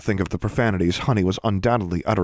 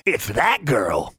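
drawn-out creature taunt, raised pitch; slow, mocking pet voice; sneering; 4 semitones higher, much slower than usual. A narrator's reading. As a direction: stretch it slowly into a jeer. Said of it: "sneered Honey".

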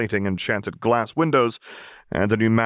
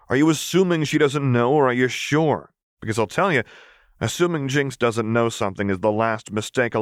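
a crass Piltover enforcer telling off a noble; rapid, scornful tough-girl rant; brash street enforcer Vi; 4 semitones higher than usual. Acted. Vi's voice again.

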